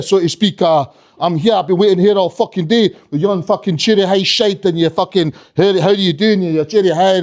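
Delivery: menacing Scottish rant; Trainspotting Scot. Acted. Little Scottish kid threatening Santa, Trainspotting accent. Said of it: "reminded me of Trainspotting".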